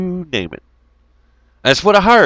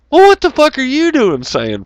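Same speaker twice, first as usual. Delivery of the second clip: shocked, pitched up challenge; high incredulous outburst; 13 semitones higher, 5 dB louder than usual. Retold or imitated. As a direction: voice jumps high in disbelief. Incredulous mock question.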